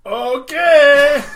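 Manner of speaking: very high, loud "okay" impression; mock eager agreement. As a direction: mimic an over-eager yes. Mocking someone's eager agreement.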